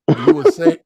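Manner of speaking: loud, high, breaking into laughs; real laughter. Real, not acted. Storyteller retelling the officer's accusation, laughing through it. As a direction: lose it mid-sentence.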